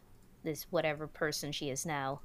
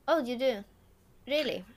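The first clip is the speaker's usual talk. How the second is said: put-on high, loud German-Swedish-accented reaction; broken German-Swedish-English accent; 8 semitones higher, 6 dB louder than usual.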